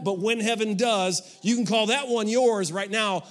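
loud, firm parent laying down rules; stern parent. Pretend. Parent to teenager, loud and firm. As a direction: tell the kid whose room it is. Preacher voicing a parent to teens.

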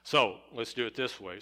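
ordinary delivery

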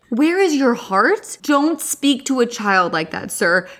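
put-on old forest witch. Mocking the art teacher's monologue, slow old witch voice. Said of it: "why is he acting like an old forest witch".

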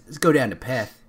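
quick Australian-accent demo. Shown as a demonstration. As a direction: say it like an Aussie, briskly. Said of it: "She says I say".

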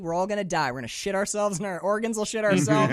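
fired-up, rising to a loud, fast preachy rant; imitating a wild-eyed man shouting his gospel; building from eager to yelling; excited rant. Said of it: "He's like".

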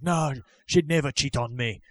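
lightly put-on Irish son; a hint of comic Irish accent. Son defending his wife to mother, slight Irish accent. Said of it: "all of a sudden he's Irish".

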